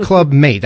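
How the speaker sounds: Mate said like English mate, one syllable, rhyming with late; Mate as a single English syllable, meɪt, on purpose the wrong way; wrong pronunciation. Shown as a demonstration. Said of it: "Yeah, that's wrong".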